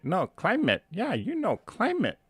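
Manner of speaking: put-on high-pitched insistent mom, heavy Asian accent; mother's Asian accent. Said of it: "her heavy Asian accent".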